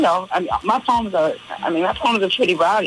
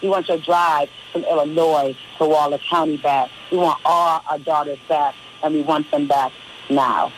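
rhythmic, declaiming performance poetry with driving repetition; spoken word poem; 2 semitones higher than usual. Acted. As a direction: preach the poem like a spoken word stage piece. Recites her poem on air.

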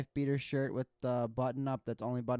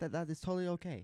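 nice; 4 semitones higher, faster than usual. Retold or imitated. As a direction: imitate a chef being kind to a child. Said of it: "like, so nice. He's like".

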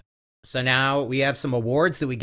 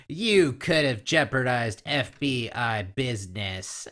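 slow, flat, lifeless anger; flat angry; slower than usual. Retold or imitated. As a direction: deliver mad words with no life. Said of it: "so flat at the same time".

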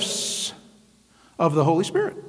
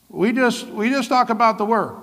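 higher, stiff mocking of a Word-only church; mock strict church; 4 semitones higher than usual. Shown as a demonstration. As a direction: parody a church that bans the Spirit. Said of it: "it should be more like this".

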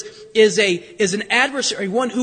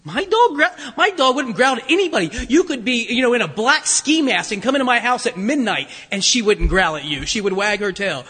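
offended dog owner insisting she is gentle; indignant disbelief. Retold or imitated. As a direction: protest that your dog would never growl. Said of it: "I said".

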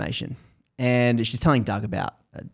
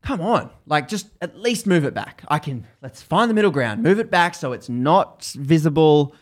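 pleading, pitched up and a bit louder; frustrated; 4 semitones higher, 3 dB louder than usual. Retold or imitated. Arguing with the officer, frustrated and exasperated. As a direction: push back, exasperated but bargaining. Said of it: "She's, like, frustrated".

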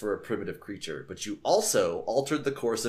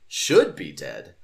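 much lower, slow and louder on "Should be dead"; ominous echo; 6 semitones lower, 7 dB louder, much slower than usual. Shown as a demonstration. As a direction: drop deep and drag out "Should be dead". Repeats line in ominous voice.

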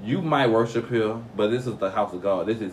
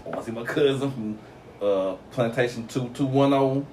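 a hint of dressed-up churchgoer, slightly higher; lightly voiced churchgoer; 4 semitones higher than usual. Dressed-up folks off to see cousins at church, lightly acted. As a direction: voice the excited churchgoer a little higher. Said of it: "be like".

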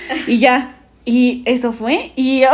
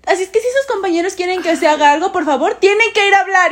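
mock authoritative teacher, higher; bossy teacher; 6 semitones higher than usual. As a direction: lecture the class like you're in charge. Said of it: "Yo mando aquí".

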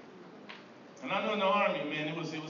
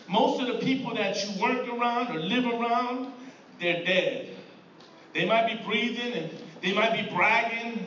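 full-force preaching; 2 semitones higher than usual. Acted. Pastor urging the church to live, forceful preaching. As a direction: preach it with punch.

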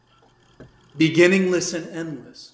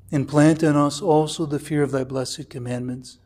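lower, measured liturgical prayer voice; 3 semitones lower than usual. Real, not acted. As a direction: recite the prayer reverently. Opens class with a prayer.

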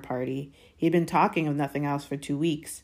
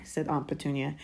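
ordinary delivery

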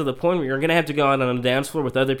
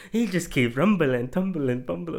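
higher, drawn-out sportscaster impression; sports commentator; 5 semitones higher, slower than usual. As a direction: imitate a TV football commentator calling a fumble. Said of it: "commentator, the guy from E S P N".

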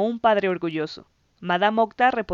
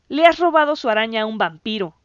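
louder alarmed shout; 2 semitones higher, 7 dB louder than usual. A narrator's reading. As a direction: yell the accusation at Darren. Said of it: "gritó Steve".

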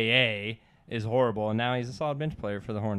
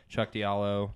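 voice cracking; slower than usual. Real, not acted. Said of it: "voice crack of the pod".

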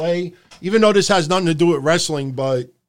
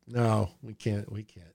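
catching himself; 8 semitones lower, 11 dB quieter than usual. Real, not acted. Self-censoring again.

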